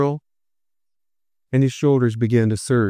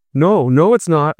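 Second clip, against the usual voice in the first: countering; 4 semitones higher, 3 dB louder than usual. Acted. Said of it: "I countered".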